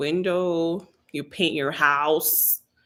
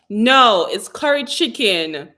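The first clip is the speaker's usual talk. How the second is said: emphatic no; 2 semitones higher, 7 dB louder, slower than usual. Real, not acted. Emphatic correction.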